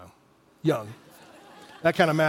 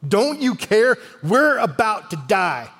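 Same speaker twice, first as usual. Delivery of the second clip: alarmed plea; 3 semitones higher, slower than usual. Retold or imitated. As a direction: plead in acted alarm, then draw out the end. Disciples waking Jesus in the storm.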